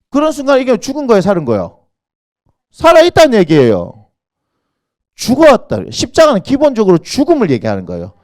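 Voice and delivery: high, loud sermon delivery; forceful preaching with falling line ends; impassioned preaching. Real, not acted. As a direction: punch each declaration at the congregation.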